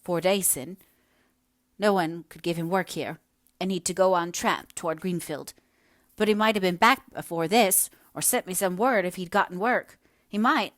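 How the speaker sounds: aggrieved, rising in pitch and volume; peevish dialect voice growing insistent; querulous village wife. Acted. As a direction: complain about being left waiting. Querulous wife complains of husband.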